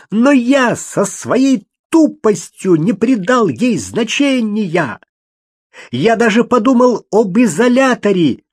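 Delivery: high, loud, drawn-out excited realisation; agitated Toby. A narrator's reading. Тоби взволнованно раскрывает догадку громко и медленно. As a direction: build to the name slowly.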